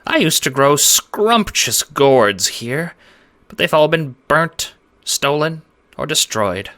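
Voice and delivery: high, squeaky voice, tired and fed up; a small creature complaining about endless wars; squeaky little man, weary. A narrator's reading. Farmer lamenting his ruined fields to strangers, squeaky.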